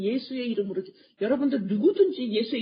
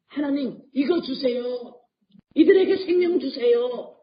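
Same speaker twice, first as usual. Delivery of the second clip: louder, slow, drawn-out plea to God; fervent prayer; 3 semitones higher, 6 dB louder, slower than usual. Acted. Preacher voicing Christ asking God for life, loud and slow. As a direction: press each word of the plea.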